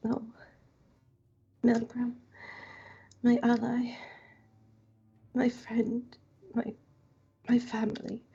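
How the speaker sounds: lightly whispered farewell to a friend; a hint of a hushed, halting whisper; accented near-whisper. Kaushik bowing at the urn to apologize, lightly whispered. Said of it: "she's just gonna kinda whisper".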